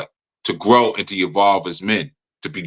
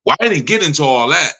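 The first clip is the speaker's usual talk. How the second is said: higher-pitched mock excuse; imitated defensive brush-off; defensive dodge; 5 semitones higher than usual. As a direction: wriggle out of the question. Retold evasive answer when questioned.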